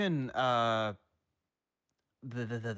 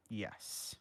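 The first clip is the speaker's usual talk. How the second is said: soft near-whispered confirmation; quiet yes; 8 dB quieter than usual. Acted.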